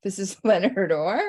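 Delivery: incredulous, laughing, rising question; can't believe who picked up; stunned disbelief. Retold or imitated. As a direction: echo the name back in laughing shock. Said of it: "I was like".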